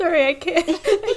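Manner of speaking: high, giggly talk, laughing through the words. Apologizing to the group mid-conversation, laughing while talking. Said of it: "can't do anything without laughing".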